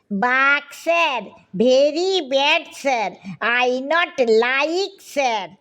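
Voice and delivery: slow, drawn-out pleading in broken English; comic reluctant underling, very slow; timid broken English. A narrator's reading. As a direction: plead haltingly with the boss, stretching each phrase. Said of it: "ভাঙা ভাঙা ইংরেজিতে".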